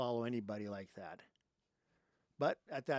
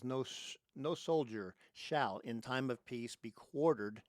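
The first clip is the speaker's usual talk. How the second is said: formal reading aloud. Real, not acted. Reads the Third Amendment aloud.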